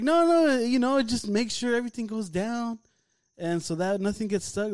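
put-on high-pitched talk to a startled kid; hurried reassurance.

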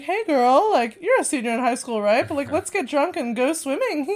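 high, loud mock cool-mom voice; playing the fun mom. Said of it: "She's like".

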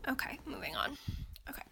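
quick whispered aside; hushed, moving along. Real, not acted. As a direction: mutter it to yourself.

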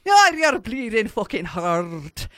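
a lightly put-on mock Irish accent, a bit slow; host keeps his bad Irish accent going on air; shitty Irish accent. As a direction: ham up a bad Irish brogue. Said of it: "as I tend to be doing right now".

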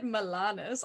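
Milanes said slowly as mi-LAH-nes, ending in plain s; slow, deliberate Milanes; Milanes pronunciation. Shown as a demonstration. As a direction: spell out Milanes carefully, no ay sound. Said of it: "is it Milanese or Milanes".

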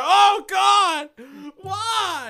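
high, loud hammed-up wail; anguished mock cry. Peter yanked back to reality, hammed-up wail. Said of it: "he's just like".

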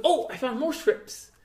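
high, slow "oh" of discovery; mock sudden discovery. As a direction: play a phony prophet's find. Mocking retold prophet's sudden discovery.

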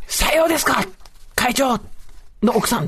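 high, punched mock-polite reply; mock formal retort. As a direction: fire it back as an exaggeratedly formal answer. Acted reply to the boss's wife.

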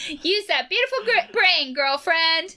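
lightly voiced Finn, slowed and girly; femme voice. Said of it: "my voice was a little, you know, femme".

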